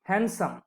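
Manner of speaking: "হ্যান্ডসাম" said hen-sam, the d left out; silent d. Shown as a demonstration. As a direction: drop the d in "হ্যান্ডসাম". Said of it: "ডিটা silent".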